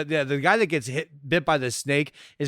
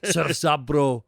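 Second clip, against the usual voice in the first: put-on California accent; much slower than usual. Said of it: "my California accent".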